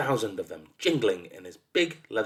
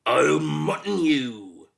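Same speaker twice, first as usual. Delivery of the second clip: very slow, loud, higher threat; threatening monster voice; 5 semitones higher, 6 dB louder, much slower than usual. A narrator's reading. Monster threatening a boy in another voice, menacing. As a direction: stretch the menace out loudly. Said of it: "threatened in yet another voice".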